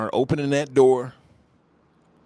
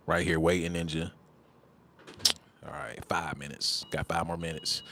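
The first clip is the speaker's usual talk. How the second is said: mock patient waiting; 6 semitones lower, 7 dB quieter than usual. Mocking troll waiting for timer.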